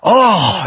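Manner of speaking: drawn-out "oh" of relief; relieved sigh. Retold or imitated. Church member reassured about the cost, relieved. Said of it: "relieving sighs".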